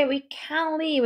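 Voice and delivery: "can" and "live" both stressed. Shown as a demonstration. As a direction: hit "can" hard and "live" hard too. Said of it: "can에 강세 주고 live에 강세 줘서".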